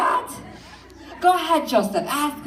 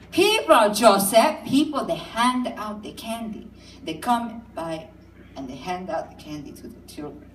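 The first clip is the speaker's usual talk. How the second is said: sing-song mother. Retold or imitated. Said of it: "a kind of a singing thing going on".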